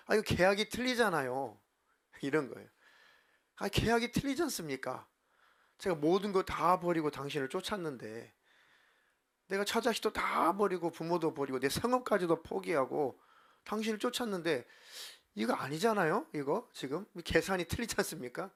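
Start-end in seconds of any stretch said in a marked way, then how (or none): 0.1-1.6 raised-pitch mock protest; acted-out complaint, pitched up. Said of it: "항변한 것입니다". 3.6-18.5 acted-out aggrieved protest; mock complaint with rising pitch on the key objections. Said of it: "항변하는 거야, 항변".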